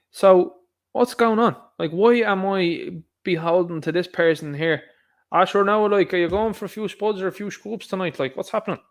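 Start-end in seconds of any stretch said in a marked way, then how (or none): 5.3-8.8 higher, hammed-up Irish guard chatting locals; mock Irish garda. Vlogger mocking an Irish garda in France, hammed-up Irish voice. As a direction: play the clueless Irish guard abroad. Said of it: "this guy over here, he don't speak the lingo".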